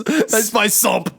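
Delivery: sung mocking echo of "I just buy sump", high and slow; teasing friend mimicking his slip in a singsong; mocking quote. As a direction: repeat his words back in a teasing singsong. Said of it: "You said".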